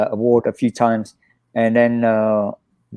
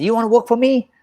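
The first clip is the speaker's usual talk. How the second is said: Jackie Chan imitation; 10 semitones higher than usual. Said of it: "he said".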